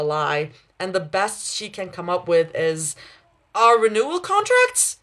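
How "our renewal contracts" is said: unconvincing lie. A narrator's reading. Blatant lie, voice jumps up.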